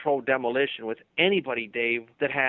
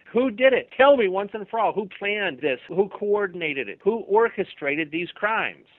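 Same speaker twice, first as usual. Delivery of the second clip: higher, louder exasperated demand, slowing at the end; exasperated outburst; 5 semitones higher, 4 dB louder than usual. Pretend. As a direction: finally lose patience and demand it. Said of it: "you're exasperated".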